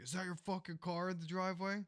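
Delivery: mildly irate neighbor, imitated; pissed neighbor. Neighbor confronting him about the car, retold as pissed. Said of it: "he was pissed".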